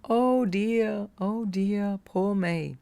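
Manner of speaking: mock self-pity. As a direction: play the victim at your own pity party, tongue in cheek. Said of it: "I love to have a pity party at times going".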